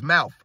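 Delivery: "mouth" with an F at the end; mocking "mouf". Host mocking a fan's spelling, "mouth" said as "mouf". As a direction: land "mouth" as a short "mouf". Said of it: "M O U F".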